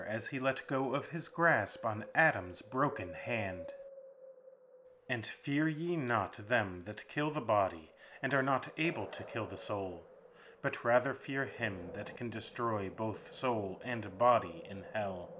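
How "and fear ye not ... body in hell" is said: defiant scripture quote. Acted. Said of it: "Adam replied".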